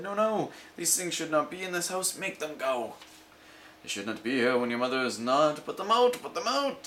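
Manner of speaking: high, urgent fish voice rising to cries; a panicky fish demanding action; alarmed fish. Acted. The fish begging the children to throw the Things out, high and urgent.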